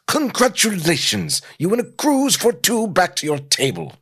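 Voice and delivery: put-on high, haughty British accent; snooty British mock congratulations; snobbish British. Norman dismissing the caveman, snobbish British accent. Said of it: "in a snobbish British accent".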